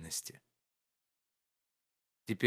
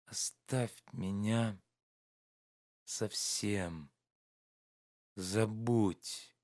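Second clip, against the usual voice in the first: slow, soft plea; quietly begging to be forgotten; tender pleading; 2 semitones lower, 4 dB quieter, much slower than usual. A narrator's reading. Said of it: "нежным, умоляющим голосом". (тихая нежная мольба)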